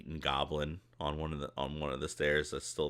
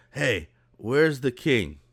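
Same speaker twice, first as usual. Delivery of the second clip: higher, louder, slow hail; cheerful character call; 6 semitones higher, 7 dB louder than usual. Acted. Sage taps an ogre and asks, higher and louder. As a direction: call out slowly to get his attention. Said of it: "taps him and goes".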